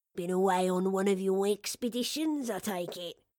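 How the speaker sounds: plain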